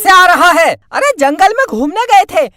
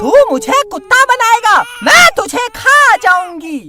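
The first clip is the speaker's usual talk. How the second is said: witch voice; 3 semitones higher than usual. Acted. Witch refuses to play the dog, indignant. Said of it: "मैं चुड़ैल हूँ".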